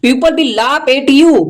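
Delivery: very slow English read. Shown as a demonstration. Teacher reading the English sentence slowly. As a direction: read each word slowly. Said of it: "teacher reads English line".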